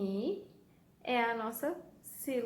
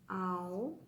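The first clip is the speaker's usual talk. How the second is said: AL, FA, CE in "alface" apart with long pauses; syllable by syllable; 3 semitones lower, 3 dB quieter than usual. Shown as a demonstration. Teacher separating a word for pupils, syllable by syllable. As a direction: split "alface" slowly into three separate syllables. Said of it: "Vamos primeiro separar ela em sílabas".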